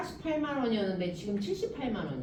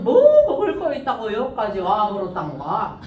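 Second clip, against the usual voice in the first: louder Jeolla dialect imitation; imitated Jeolla local greeting, louder; 7 dB louder than usual. Voices Jeolla people's greeting.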